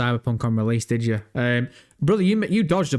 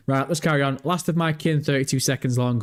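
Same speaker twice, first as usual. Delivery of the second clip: ordinary talk, nothing marked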